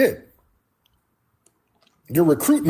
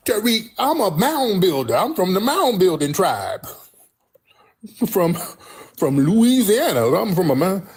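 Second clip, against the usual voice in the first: mocking caller; 4 semitones higher than usual. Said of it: "They call up mad at me".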